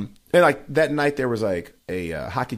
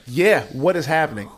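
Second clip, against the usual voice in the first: slow, higher, emphatic echo; baffled agreement; 5 semitones higher, 4 dB louder than usual. Retold or imitated. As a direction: join the crowd's bafflement, drawn out. Comic echoes the shocked crowd.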